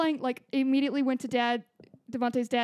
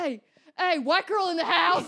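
party shout; 5 semitones higher than usual. Pretend. Acting out yelling entrance.

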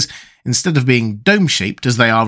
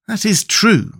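higher, mildly let-down reply; disappointed; 9 semitones higher, slower than usual. A narrator's reading. Tip accepts the Scarecrow's objection, disappointed. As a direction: concede it with mild disappointment. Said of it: "greatly disappointed".

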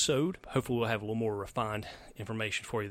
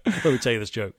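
mock bigot; 6 dB louder than usual. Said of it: "not to be racist".

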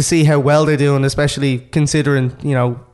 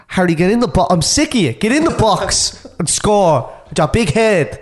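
playful, higher-pitched telling-off; mock exasperation; 4 semitones higher than usual. Pundit imagines ordering Harry Kane into the box, mock exasperated. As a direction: scold him in mock frustration, half laughing.

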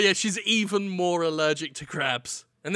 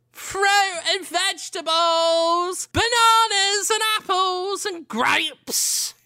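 high, slow hawker call, much higher; street vendor cry; 13 semitones higher, 4 dB louder, slower than usual. Acted. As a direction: cry out your wares like a market trader. Market seller calling out wares.

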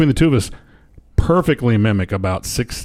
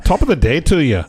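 higher, failed Irish greeting; bad Irish accent; 4 semitones higher than usual. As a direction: attempt an Irish accent badly. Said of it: "I can't do it".

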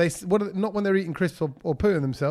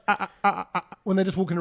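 seagull clucking; faster than usual. Shown as a demonstration. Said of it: "they do that like a".

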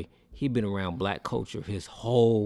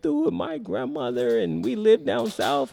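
high-pitched imitation of an indignant woman; mock upset woman; 14 semitones higher than usual. Retelling a woman blowing up at a little person, high mock outrage. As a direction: put on a much higher voice, mocking her outrage. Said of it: "she blew it up and was like".

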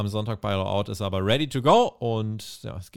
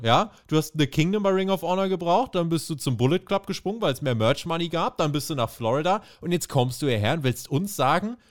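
accusing promo; 2 semitones higher than usual. Retold or imitated.

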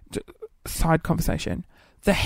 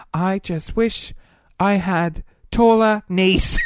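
slow earnest wish; 3 dB louder, slower than usual. Retold or imitated. Retelling own answer as child.

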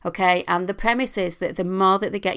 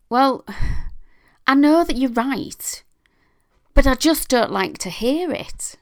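higher-pitched, louder upset teen, imitated; teenage daughter; 8 semitones higher, 4 dB louder than usual. Daughter answering her parent's feedback after a meltdown, imitated protest. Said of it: "she had a little meltdown".

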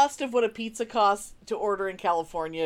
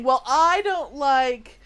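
mock picky complaints. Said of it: "So they're all saying".

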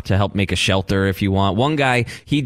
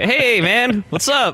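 high put-on voice of a grizzled trail hiker; Wild Bill voice; 13 semitones higher, slower than usual. A hiker met on the Appalachian Trail, high folksy put-on. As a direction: play a long-haul hiker, folksy.

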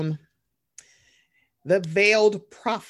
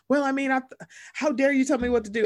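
indignant mock; 6 semitones higher, faster than usual. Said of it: "they'd be like".

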